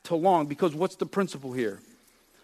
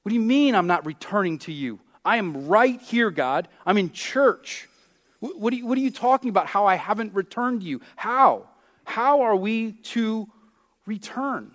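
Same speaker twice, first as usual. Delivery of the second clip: indignant protest; 4 semitones higher than usual. Retold or imitated. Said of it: "we say".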